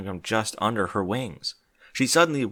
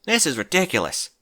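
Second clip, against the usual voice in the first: lamenting Applejack; 5 semitones higher, 4 dB louder than usual. Acted. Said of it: "Applejack lamented".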